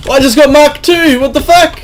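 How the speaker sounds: excited surprise. Real, not acted. Gamer thrilled at getting the Mark two, quick excited blurt. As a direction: rattle it off like you just hit the jackpot. Excited at a rare weapon drop.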